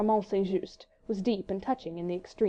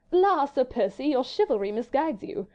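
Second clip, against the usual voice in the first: higher, louder, teasing lady; coquettish; 5 semitones higher, 4 dB louder than usual. A narrator's reading. Marguerite teasing her husband, coquettish and higher. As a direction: flirt and tease him lightly. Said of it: "said Marguerite coquettishly".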